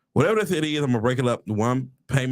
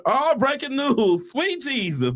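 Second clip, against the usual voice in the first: high, drawn-out mock alarm; hammed-up excited bulletin; mock breaking news; 11 semitones higher, slower than usual. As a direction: cry it out like huge news.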